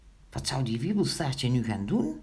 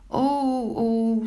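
high, loud cries of dismay; startled spider; 7 semitones higher, 5 dB louder than usual. A narrator's reading. Frightened spider answers Pinkeltje, high startled moan.

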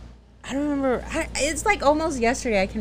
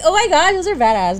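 amazed gasp at the graphics; excited; 8 semitones higher, 9 dB louder than usual. Retold or imitated. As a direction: blurt it out, thrilled. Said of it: "I was like".

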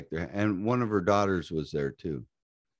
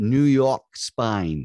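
mock New York accent; 5 dB louder, much slower than usual. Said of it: "he's speaking in my accent".

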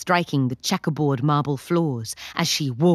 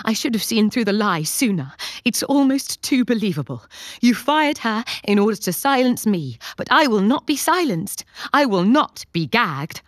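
panting; 4 semitones higher, 3 dB louder than usual. Acted. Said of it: "Stephanie pants".

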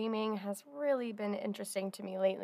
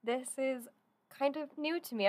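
excited and nervous; 4 semitones higher than usual. Real, not acted. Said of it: "I'm so excited and nervous".

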